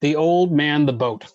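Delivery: put-on The old man, the boat read with a pause after man; read as a sentence. Shown as a demonstration. Teacher reads a confusing sentence aloud, pausing after man. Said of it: "So look at this sentence".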